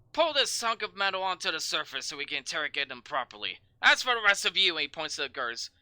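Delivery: loud commanding orders; barking sergeant. Acted. Sergeant ordering guards to jail the newcomers, loud.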